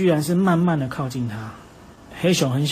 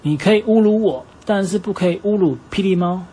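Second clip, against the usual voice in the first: higher, louder indignant protest; angry retort; 4 semitones higher, 4 dB louder than usual. Acted. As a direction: defend his friends with a flare of anger. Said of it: "老虎先生就生气了". (生气地高声反驳)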